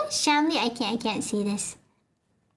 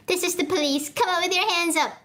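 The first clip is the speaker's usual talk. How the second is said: higher, commanding police announcement; police call; 5 semitones higher than usual. Acted. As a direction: order the robber out.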